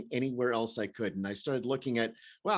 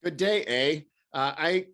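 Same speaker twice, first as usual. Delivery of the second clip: higher, louder put-on Canadian greeting; playful Canadian accent, pitched up; mock Canadian accent; 5 semitones higher, 7 dB louder, slower than usual. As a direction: greet them like a pretend Canadian. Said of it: "I'm not gonna be able to keep up this accent".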